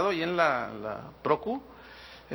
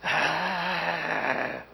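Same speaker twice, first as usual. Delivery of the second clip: imitated exasperated groan; 3 semitones lower, 3 dB quieter than usual. Imitates obstacle while telling.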